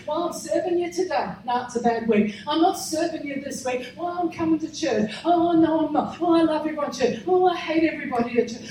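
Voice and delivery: mock wavering churchgoer; lightly acted fickle complainer; wishy-washy believer. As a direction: waver back and forth in mild mockery. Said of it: "He wasn't wishy-washy".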